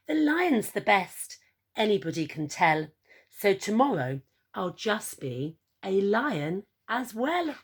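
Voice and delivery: upbeat emu, pitch rising at the start; pleased with himself, lion plan; smiling Edward. Acted. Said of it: "he smiled as he said".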